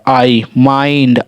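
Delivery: slow आई, then माइंड with the same "eye"; vowel demo. Shown as a demonstration. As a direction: draw out "ai" in माइंड. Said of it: "आई का उच्चारण हो रहा है".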